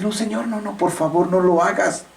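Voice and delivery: high, pleading plea to the Lord; pleading Moses. Retold or imitated. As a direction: beg like Moses for the people. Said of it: "todavía Moisés le dijo". (Moisés suplicando, agudo y rogando)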